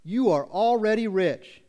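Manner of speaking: loud, drawn-out sarcasm; sarcastic. Acted. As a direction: stretch it out sarcastically. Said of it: "he's gonna do it using sarcasm".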